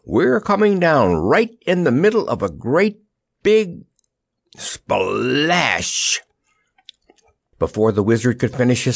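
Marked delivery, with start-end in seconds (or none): 0.0-6.2 high, excited announcement building word by word; elated high call; joyful shout. A narrator's reading. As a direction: shout it joyfully, stretching the last words. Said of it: "he shouted joyfully".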